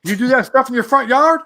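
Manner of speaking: Southern cop scolding. Retold or imitated. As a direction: scold him like a small-town cop. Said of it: "and he was like".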